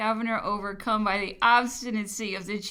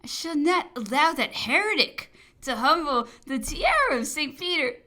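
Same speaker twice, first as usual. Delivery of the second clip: ordinary delivery, nothing marked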